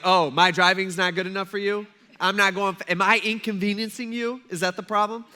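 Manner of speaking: sarcastic, affronted challenge; mock indignation. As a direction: act offended at the passing car. Acts offended driver being passed.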